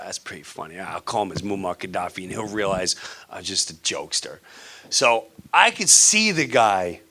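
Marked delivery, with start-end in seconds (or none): 0.1-4.4 muttered aside. Retold or imitated. Retold own reply, muttered.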